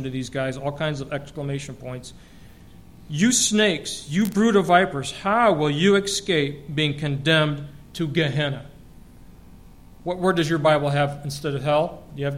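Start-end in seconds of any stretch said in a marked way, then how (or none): 3.1-8.7 Jesus's rebuke, emotion raised and pitched up, slowing at the end; emotional rebuke. Acted. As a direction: hurl it at them like a charged accusation, all exclamation points. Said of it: "saying this with a whole bunch of emotion".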